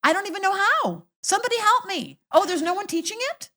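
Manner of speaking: high loud mock panic; mock helpless whine. Guest playing a helpless person, high mock whine. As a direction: wail it like someone who can't cope.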